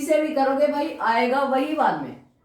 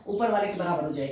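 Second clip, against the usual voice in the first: "ऊपर वाले के बराबर हो जाए" repeated faster and lower; quick lower repeat; 6 semitones lower, 4 dB quieter, faster than usual. Shown as a demonstration. Teacher repeating the step for students, quicker and lower. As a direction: rattle it off again, quicker and lower.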